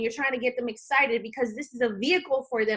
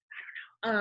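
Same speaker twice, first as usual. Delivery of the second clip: whisper; 3 semitones lower, 7 dB quieter than usual. Real, not acted. Trailing aside after self-mockery.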